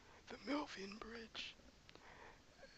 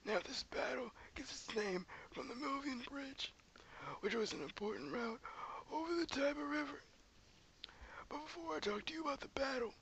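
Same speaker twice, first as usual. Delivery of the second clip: put-on old man voice; 4 semitones lower than usual. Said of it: "I'm gonna use this old man voice".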